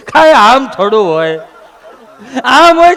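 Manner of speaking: mock outburst. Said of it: "phone કરીને કીધું".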